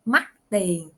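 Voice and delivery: "mắc tiền." said with clear Vietnamese tones; Vietnamese word demo. Shown as a demonstration. Teacher saying the word for expensive, clear. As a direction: model "mắc tiền." carefully for learners. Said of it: "had the meaning expensive".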